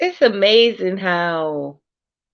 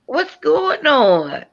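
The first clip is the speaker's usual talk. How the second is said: drawn-out, higher echo of a Southern drawl; mimicked Southern accent; 6 semitones higher, slower than usual. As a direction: playfully stretch it in a Southern accent. Echoing the friend's drawled question.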